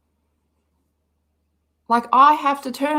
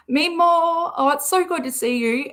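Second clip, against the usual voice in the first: bright, high happy hello; light up as you greet a viewer; excited greeting; 7 semitones higher than usual. Real, not acted. Streamer greeting a viewer she missed, high and happy. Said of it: "I didn't get to say, like".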